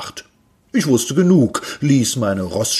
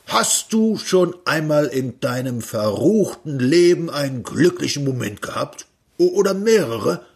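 lightly voiced, teasing higher inventor; eccentric inventor; 5 semitones higher than usual. Inventor teasing Peter about happy moments, lightly voiced. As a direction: needle him a little.

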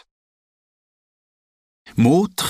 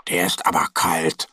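whisper; 6 semitones lower than usual. A narrator's reading. Bear touching icy handlebar.

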